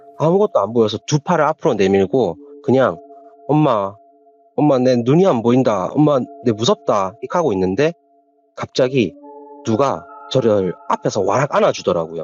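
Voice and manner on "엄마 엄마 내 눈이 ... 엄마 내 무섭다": usual speaking voice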